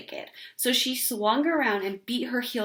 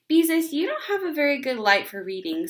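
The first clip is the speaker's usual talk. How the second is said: higher, louder motherly nagging; fussing mother; 6 semitones higher, 4 dB louder than usual. Acted. Mother to Beezus about her eyes, mild nagging. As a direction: warn her kindly but firmly.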